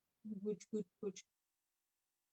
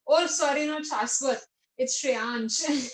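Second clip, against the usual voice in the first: caught own slip; 3 semitones higher, 6 dB louder, much slower than usual. Real, not acted. Wrong student name praised.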